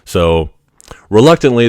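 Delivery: usual speaking voice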